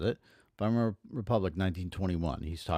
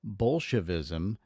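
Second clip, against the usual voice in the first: 1 emphatic; slower than usual. Shown as a demonstration. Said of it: "Hitler emphatically continued".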